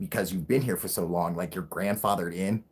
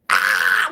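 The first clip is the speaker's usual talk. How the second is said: 1 mock scream; 3 semitones lower, 7 dB louder than usual. Shown as a demonstration. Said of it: "I have a high-pitched".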